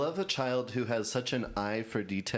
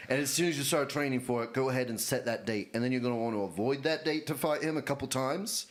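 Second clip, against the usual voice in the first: put-on Australian accent. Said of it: "Nationally ambiguous Elon Musk".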